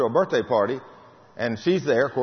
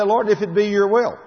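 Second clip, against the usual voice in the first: mock timid prayer; 7 semitones higher, 5 dB louder than usual. Mocking weak prayer.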